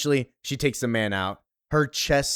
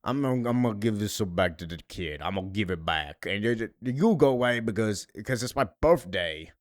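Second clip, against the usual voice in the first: mock drunk; 3 semitones lower than usual. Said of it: "she drunkenly says".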